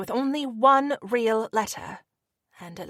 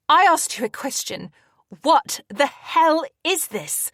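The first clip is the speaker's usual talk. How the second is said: furious demand; 6 semitones higher, 6 dB louder than usual. A narrator's reading. Demanding, near tears.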